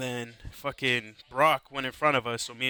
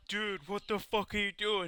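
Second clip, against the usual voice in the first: incredulous; 8 semitones higher, 3 dB quieter than usual. Retold or imitated. Friend kicking vending machine, retold.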